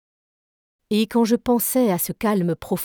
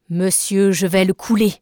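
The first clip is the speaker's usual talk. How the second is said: grim resolve; 4 dB louder than usual. Acted. Nemo states his intent.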